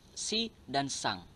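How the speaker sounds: "si dan sang" spelled out slowly, each word set apart; teacherly slow stress on "si" and "sang"; slow emphasis. Shown as a demonstration. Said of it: "penggunaan kata sandang".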